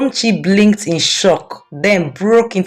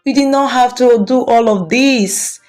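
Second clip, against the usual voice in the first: touched and teary thanks; touched, near tears; 4 semitones higher than usual. A narrator's reading. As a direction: choke up a little with gratitude. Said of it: "tears forming in her eyes".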